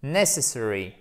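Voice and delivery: "necessary" with the first syllable carrying the accent; first-syllable stress. Shown as a demonstration. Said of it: "la syllabe va être porteuse de l'accent tonique". (« necessary » accentué sur la première syllabe)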